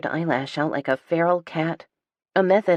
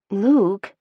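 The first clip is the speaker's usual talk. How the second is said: outraged hiss; 5 semitones higher, 6 dB louder than usual. A narrator's reading. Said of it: "I hiss, outraged".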